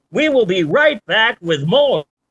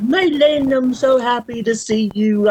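mock Australian accent; 6 semitones higher than usual. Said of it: "how to do an Australian accent".

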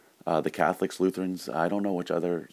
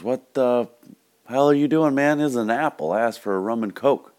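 higher, louder mock outrage; indignant customer; 8 semitones higher, 6 dB louder than usual. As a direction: act out a baffled, annoyed bar customer. Customer confronts bartender over apple.

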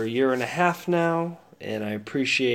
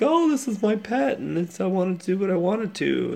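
mocking voice; 8 semitones higher than usual. Mocking careless pet owners.

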